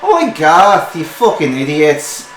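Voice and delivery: loud sharp yell at the apprentice; shrill dwarf woman. Acted. Dwarf mistress scolding her apprentice, loud and shrill. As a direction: snap at him from the back room. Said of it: "higher pitched, shrill voice".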